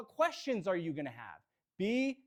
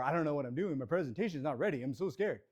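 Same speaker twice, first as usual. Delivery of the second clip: lower, self-doubting inner voice; little voice of doubt; 6 semitones lower, 3 dB quieter, faster than usual. Acted. New agent's inner voice before a presentation, mildly scared and low. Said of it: "little voice in your head".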